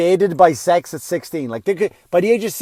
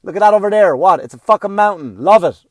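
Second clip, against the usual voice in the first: loud, higher commands to love the view; yelling at kids; 4 semitones higher, 9 dB louder than usual. Retold or imitated. Father yelling at his kids about a mountain, loud. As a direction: bark at the kids to appreciate it. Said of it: "yell at them".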